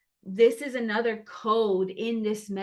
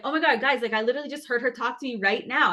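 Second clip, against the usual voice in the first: fast, higher and louder, bursting with excitement; excited retelling; 3 semitones higher, 6 dB louder, much faster than usual. Retold or imitated. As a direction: rattle it off like breathless news. Excitedly retelling her post to followers.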